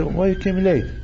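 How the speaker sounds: ordinary talk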